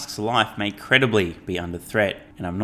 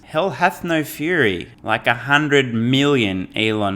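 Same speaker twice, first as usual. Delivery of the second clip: slow, louder, hammed-up grand warning; a slow, mock-solemn ominous pronouncement; mock dramatic proclamation; 3 semitones higher, 4 dB louder, slower than usual. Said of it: "all I can say is".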